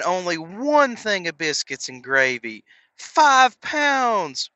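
thrilled the scale finally moved; mock giddy excitement. Dieter seeing first pounds drop, giddy mock excitement. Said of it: "you're like".

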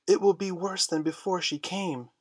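put-on alarmed boys crying out together; cried out. A narrator's reading. Lost Boys protesting to Wendy, crying out. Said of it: "they cried".

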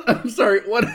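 sputtering after choking on coffee; choking on a drink. Real, not acted. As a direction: cough it out mid-laugh. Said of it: "I just choked on my coffee".

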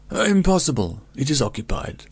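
a hint of an alarmed innkeeper blurting no; startled refusal. A narrator's reading.

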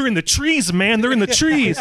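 high-pitched mock panic, like a jungle flashback; panicked war veteran. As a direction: imitate a spooked vet raising the alarm. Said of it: "Agent Orange did something to him".

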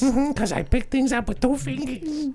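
lightly voiced Brooklyn mobster; Brooklyn accent. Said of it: "Why do you talk like that?".

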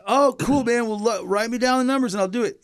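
a touch of a relaxed stoner; laid-back reply. Retold or imitated. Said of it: "He's like".

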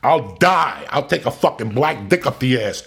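loud, high, slow retold rant, cursing out the bosses; retold furious rant. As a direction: relive the blow-up at full volume.

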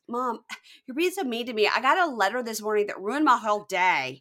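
lightly hammed-up upset daughter; whiny daughter. Daughter complaining to mom about the letter, mock upset.

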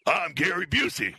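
celebrity impression as a demonstration; measured put-on celebrity voice; Gary Busey. Shown as a demonstration. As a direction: model the impression for a bad mimic. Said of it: "You're not getting it".

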